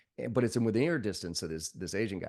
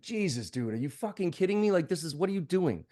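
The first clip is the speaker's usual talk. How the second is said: incredulous; 7 semitones higher than usual. Retold or imitated. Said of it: "you're sitting there watching this going like".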